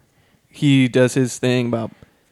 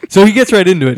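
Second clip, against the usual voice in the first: laughing; 7 semitones higher, 7 dB louder, faster than usual. Real, not acted. Laughs at Paul's bluntness.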